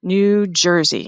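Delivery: slow, drawn-out reveal after a pause; drumroll reveal. Acted. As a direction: let "New Jersey" land slowly like a big reveal.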